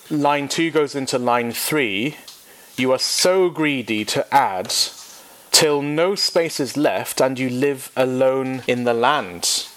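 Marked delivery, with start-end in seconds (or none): 2.8-9.7 a light touch of sass in God's voice; sassy sarcasm. Shown as a demonstration. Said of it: "Can you hear the sarcasm, the sass in God's voice".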